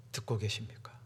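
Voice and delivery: hushed, urgent whisper; a sudden confiding whisper to the congregation. Shown as a demonstration. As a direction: lean in and whisper the question. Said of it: "그 소식만 보고 듣고 계십니까?".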